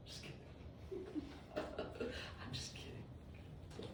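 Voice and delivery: soft, slow, voiceless chuckle through the words; laughing. Real, not acted. Teacher taking back a joke to students, laughing softly. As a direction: laugh it off very quietly under your breath. Joking aside to the class.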